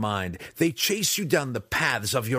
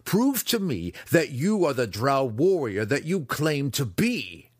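louder, higher, goading dare; goading challenge; 6 semitones higher, 4 dB louder than usual. A narrator's reading. Weapons master daring his pupil to strike, loud.

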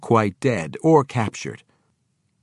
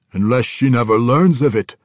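dangerous; 2 semitones higher, 7 dB louder than usual. A narrator's reading. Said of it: "eyeing the drow dangerously".

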